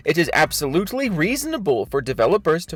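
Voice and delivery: overwrought, mock-solemn reading of a statement; dramatic reading. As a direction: read it like a grand, self-important speech. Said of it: "This is a dramatic reading of his thread".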